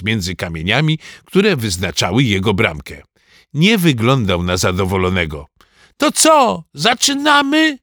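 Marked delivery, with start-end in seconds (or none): 6.0-7.8 excited shout. A narrator's reading. Goalkeeper impatient to start the football match, shouting. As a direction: call out eagerly to get things started. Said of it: "krzyczał".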